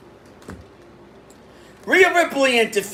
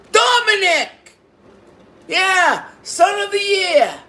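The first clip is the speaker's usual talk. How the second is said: sarcastic jeer; 9 semitones higher, 3 dB louder than usual. Real, not acted. Sarcastic jeer at interfering wrestler.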